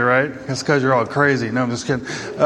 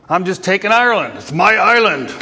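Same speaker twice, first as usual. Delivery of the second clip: hint of Irish accent; 3 semitones higher than usual. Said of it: "I can't do the accent".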